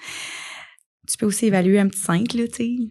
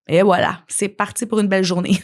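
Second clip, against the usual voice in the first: sarcastic. Acted. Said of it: "Je suis très sarcastique quand je dis ça".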